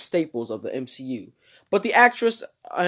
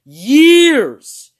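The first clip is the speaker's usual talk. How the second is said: high, loud, drawn-out "years", building; exasperated wail; 9 semitones higher, 14 dB louder than usual. Pretend. Host hammering home the long wait, loud exasperation. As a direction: wail "years" in mock outrage. Comic repeated complaint about the wait.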